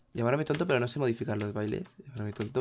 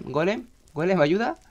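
pleading for help; 6 semitones higher, slower than usual. Real, not acted. Calls game golem for help.

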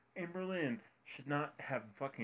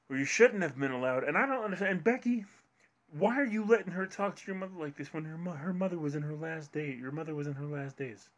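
loud, high, furious yelling at someone; angry shouting; 7 semitones higher, 6 dB louder than usual. Real, not acted. A YouTuber yelling at Becky over her mother, furious shout. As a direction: tear into them, voice raised and outraged.

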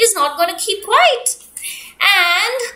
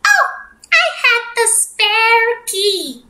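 chirpy duck; 6 semitones higher than usual. Acted. Duck answers bear.

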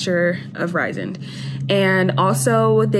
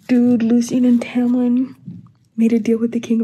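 breathless stunned whisper; shocked whisper; 4 semitones higher than usual. Real, not acted. Reader reacting to a twist, shocked whisper. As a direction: whisper the news in disbelief.

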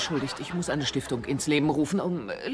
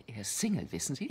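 quieter, lower confiding aside; dropped to a softer, lower aside; confidential aside; 6 semitones lower, 8 dB quieter than usual. Acted. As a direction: let her in on a secret, softly. Mother's confidential aside to guest.

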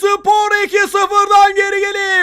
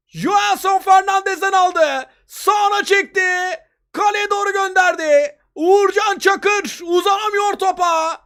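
high, raised voice, still thrilled; excited football commentator; 4 semitones higher than usual. Real, not acted. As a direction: relive the goal with excitement. Replay of the winning goal. (heyecanlı maç spikeri)

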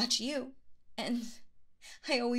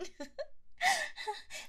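a high, delighted squealing giggle; giddy giggle; 4 dB quieter than usual. Acted. Teasing her darling about getting injured, a high giddy giggle. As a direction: giggle high and breathless at your own tease.

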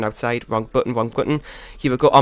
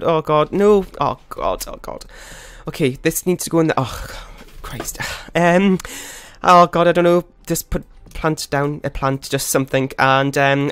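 shaky stammering panic. Real, not acted. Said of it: "'cause I'm panicking too much".

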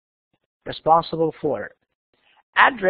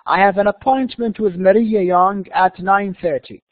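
slow, deliberate pronunciation; careful model reading; much slower than usual. Shown as a demonstration. Teacher reading the appointment line for students, slow careful reading. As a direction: read it slowly, word by word. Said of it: "listen carefully and see how words are pronounced".

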